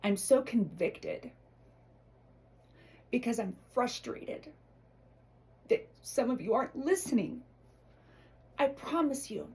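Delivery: fighting back real tears; near tears. Real, not acted. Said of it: "I'm gonna start to cry".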